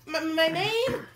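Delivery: slow, high stammer; timid cook. Acted. Shaky-handed cook meets the king, timid stammer. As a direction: stumble nervously over the words.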